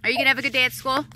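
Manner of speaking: fast, tearful voice; trying to talk through tears; crying. Real, not acted. Mom crying as her daughter boards the bus. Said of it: "I'm very emotional".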